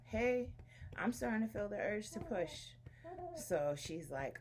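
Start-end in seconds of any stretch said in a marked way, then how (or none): 0.1-2.7 higher-pitched quoted announcement; telling the midwife. Retold or imitated. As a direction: re-enact alerting the midwife. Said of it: "So I'm telling the midwife".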